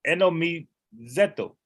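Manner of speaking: eh no mi zeto said again in separate syllables; careful Greek syllables. Shown as a demonstration. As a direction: break it up and say it carefully. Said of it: "the actual word is eto".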